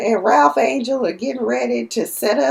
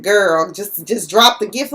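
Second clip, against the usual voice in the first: firm dismissal; 5 dB louder than usual. Retold or imitated. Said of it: "he's like".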